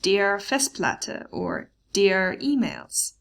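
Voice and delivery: slow, careful German forms; slow model reading. Shown as a demonstration. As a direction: lay out each form slowly for the class. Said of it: "they don't take an ending".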